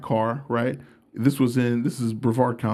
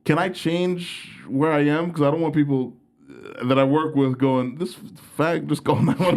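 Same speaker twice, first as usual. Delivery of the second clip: panicked plea; 3 semitones higher than usual. Retold or imitated. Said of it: "I was like".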